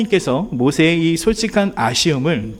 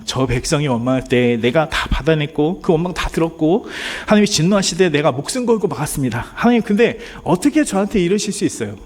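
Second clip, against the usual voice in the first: pleading lament; 3 semitones higher than usual. Pretend. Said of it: "제가 모세였다면 이렇게 얘기했을 것 같아요".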